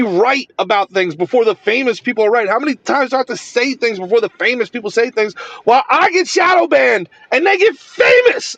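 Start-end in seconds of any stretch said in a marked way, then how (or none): 2.5-8.6 fast, frustrated venting that rises in pitch. Real, not acted. Creator complaining that others get the credit, frustrated. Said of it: "I get so frustrated".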